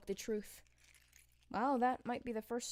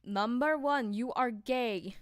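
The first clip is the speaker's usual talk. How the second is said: loud; 3 semitones higher, 6 dB louder, much slower than usual. Pretend. Apollo voiced in a TikTok.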